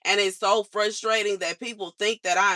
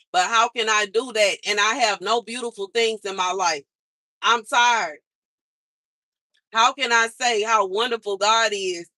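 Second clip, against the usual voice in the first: louder, exasperated, voice pushed up; frustrated outburst; 5 dB louder than usual. Real, not acted. Venting to viewers about God and hardship, loud frustrated outburst. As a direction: let the frustration spill out loud.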